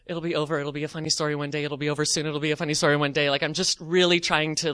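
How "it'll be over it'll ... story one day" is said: low, soft, rapid chant; muttered mantra. Retold or imitated. Embarrassed shopper getting through the wait, low hurried self-soothing mantra. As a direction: soothe yourself under your breath. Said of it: "go over the mantra in my mind".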